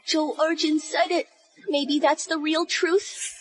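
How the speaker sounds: put-on a heartbroken girl near tears, doubting her beloved; tearful. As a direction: choke out the questions as hope collapses. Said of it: "Are you done crying?".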